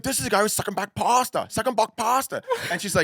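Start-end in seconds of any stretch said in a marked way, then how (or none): 0.0-1.5 funny voice. Retold or imitated. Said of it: "Why is he talking like that?". 1.5-2.4 funny voice. Retold or imitated. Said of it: "saying it in such a funny way".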